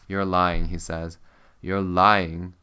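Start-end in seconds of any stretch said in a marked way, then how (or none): 0.1-0.7 loud, hard accusation leaning on lying; angry accusation. Acted. Scarred stranger confronting the narrator, loud and angry. 1.6-2.5 loud, hard accusation leaning on lying; angry accusation. Acted. Scarred stranger confronting the narrator, loud and angry.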